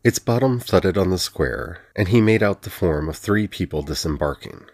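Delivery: plain reading voice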